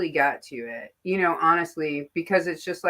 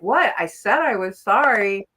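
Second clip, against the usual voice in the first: indignant; 3 semitones higher, 5 dB louder than usual. Retold or imitated. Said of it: "who are like".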